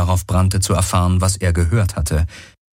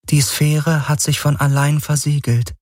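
raised, detached AI voice; higher, otherworldly voice of a calm machine; the Helix, a machine mind; 8 semitones higher than usual. Acted.

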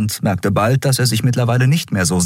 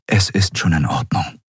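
calm reassurance. Acted. Kai tells Endriel it is all right, calm. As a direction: settle her down calmly. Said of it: "sagte er ruhig".

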